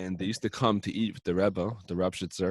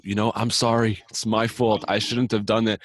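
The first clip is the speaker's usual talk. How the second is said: louder, insistent apology; earnest apology; 2 semitones higher, 5 dB louder than usual. Retold or imitated. First friend apologising after a falling out, earnest. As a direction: own up to it emphatically, voice pushed louder.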